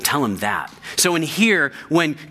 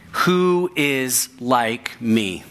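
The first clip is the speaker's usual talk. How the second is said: slow taunting challenge; much slower than usual. Acted. Slow quote of God's challenge.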